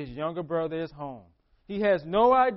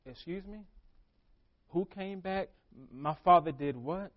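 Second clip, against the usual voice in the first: can't believe what he hears; mock offended older son; indignant disbelief. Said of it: "He's like".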